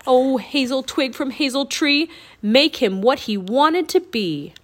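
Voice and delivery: loud, declaimed rhyming incantation; shouted spell. A narrator's reading. Jack aiming the twig at the Raven King, shouted spell. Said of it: "and shouted".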